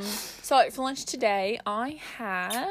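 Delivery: slow, careful Aussie attempt; attempted Australian accent. Shown as a demonstration. Retrying the lunch answer, careful Australian accent. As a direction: feel out the Australian vowels slowly. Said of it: "I'm gonna try to do an Australian accent".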